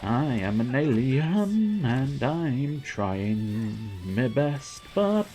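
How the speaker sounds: slow, drawn-out odd alien voice; lightly voiced alien trying to pass as human. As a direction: speak like an alien faking humanity. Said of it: "I go into strange voices".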